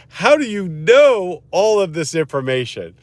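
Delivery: incredulous. Retold or imitated. Young lawyer asking his all-knowing boss, incredulous. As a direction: imitate an astonished question. Retold amazed question to boss.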